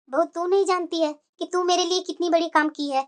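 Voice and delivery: put-on relieved elderly mother; grateful mother-in-law. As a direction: thank the bahu warmly. Mother praises daughter-in-law.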